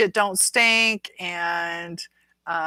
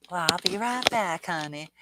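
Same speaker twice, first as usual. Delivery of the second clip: put-on Southern accent. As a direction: play a folksy Southern server. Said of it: "that's how they talk".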